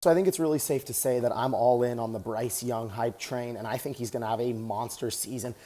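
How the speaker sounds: talking while jogging on a treadmill; a little winded mid-run; while running. Real, not acted. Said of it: "Just getting some cardio in right now".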